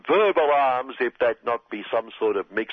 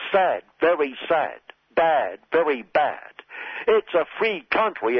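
a hint of Trump, smug and emphatic; Trump impression. Satirist voicing Donald Trump.

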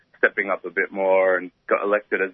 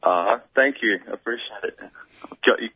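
groggy morning voice, just woken up; sleepy morning voice. Real, not acted. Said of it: "Sorry about my morning voice".

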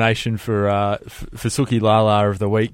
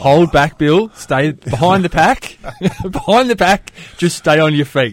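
mock race coach; 7 semitones higher, 4 dB louder than usual.

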